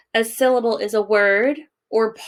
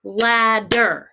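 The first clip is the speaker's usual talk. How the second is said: Ladder drawn out as two beats, lad-der; clapped syllables. Shown as a demonstration. Teacher clapping words out for pupils, Ladder in two slow beats. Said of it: "we're gonna clap these out again".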